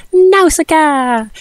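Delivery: high, slow drawn-out call; shouted name. Pretend. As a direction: belt the name out dramatically.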